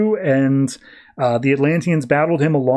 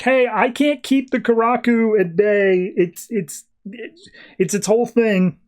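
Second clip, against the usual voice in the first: higher-pitched mock call for help; imitating calling out; 7 semitones higher than usual. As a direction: call out to mom, half-acted. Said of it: "Aquaman's calling out to his mom".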